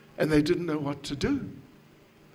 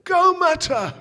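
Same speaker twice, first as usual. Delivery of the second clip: high, loud excited pointing out; distracting a baby; 13 semitones higher, 8 dB louder than usual. Lady showing a crying baby the cow, excitedly calling. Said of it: "if there's a cow, say".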